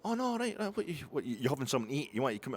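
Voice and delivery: high hammed-up Belgian accent. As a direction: sing it out like a stereotyped Belgian. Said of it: "It's a bit stereotypical".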